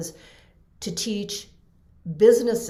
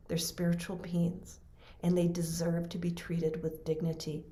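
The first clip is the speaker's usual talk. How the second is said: softer, steady, fading almost to a whisper at the end; gentle reassurance; 6 dB quieter than usual. Retold or imitated. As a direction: calmly comfort a crying nurse. Gently teaching the crying nurse.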